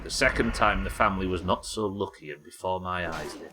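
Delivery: measured storytelling read; quest narration. Acted. Ghost asking a hero to slay old Murkai, storytelling.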